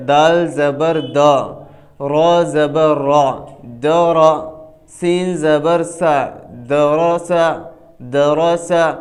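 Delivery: "دال زبر دا" spelled piece by piece, then blended into "درا سا"; spelling then blending. Shown as a demonstration. Teacher showing zabar is not stretched, spelled then blended "درا سا". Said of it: "کھنچے گی بالکل نہیں".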